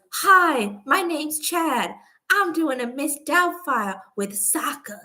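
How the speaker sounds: high, slow mock advert voice; imitating the Disney Plus advert guy. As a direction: drag out the cheesy ad intro. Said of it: "where this guy goes".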